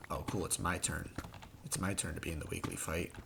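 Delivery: low, deadpan inner thought; mock resigned. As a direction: drily voice a sarcastic thought. Acted resigned thought during attack.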